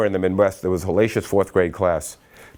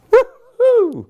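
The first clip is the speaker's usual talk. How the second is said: a high, loud whoop of delight; joyful yell; 7 dB louder than usual. Retold or imitated. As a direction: shout it like she can't believe her luck. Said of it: "yelling out loud".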